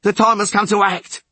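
high, loud, rough rasp; rasping defiance. A narrator's reading. Tallest sailor justifying mutiny to witcher, loud rasp. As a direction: rasp out the demand. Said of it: "rasped the tallest of them".

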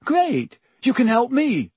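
put-on high, eager timid boy; chirpy and a little nervous; Neville voice.

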